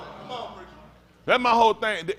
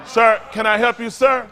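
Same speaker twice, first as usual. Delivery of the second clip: mock polite clerk; 3 semitones higher, 6 dB louder than usual. Mock clerk greeting a customer.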